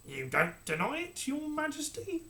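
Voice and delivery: sly pressing question, slow; needling courtier. Acted. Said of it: "pressed the Lord Protector".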